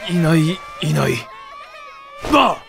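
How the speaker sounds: peekaboo. Acted. Peekaboo to crying baby.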